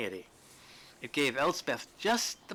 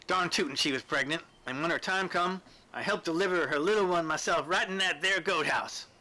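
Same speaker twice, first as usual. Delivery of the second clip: eager storytelling; 5 semitones higher, 3 dB louder than usual. Acted. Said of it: "pushing the narrative along at a far brisker pace".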